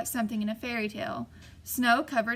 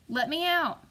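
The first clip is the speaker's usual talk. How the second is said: harsh cry; 6 semitones higher than usual. A narrator's reading. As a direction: yell it out, desperate to be freed. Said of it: "Again the voice cried out".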